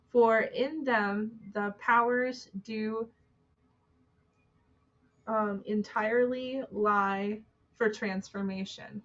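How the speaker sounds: slow, measured reading aloud; solemn quote reading. Acted. Host reading a Jane Lead quote to viewers, solemn quote reading. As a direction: read it out slowly, phrase by phrase.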